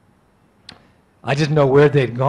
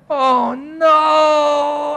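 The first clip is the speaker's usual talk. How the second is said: much higher, crying out; anguished cry; 12 semitones higher than usual. Retold or imitated. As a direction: break down in grief. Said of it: "I went".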